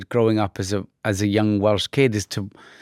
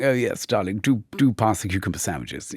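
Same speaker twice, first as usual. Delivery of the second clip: mock posh English accent; 3 semitones lower than usual. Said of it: "mimicking that language in a derogatory way".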